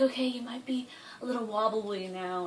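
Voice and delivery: whispered nurse aside; imitated nurse whisper. Nurse to nervous patient, whispered warning. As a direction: breathe it like a gentle nurse. Nurse after giving calming pill.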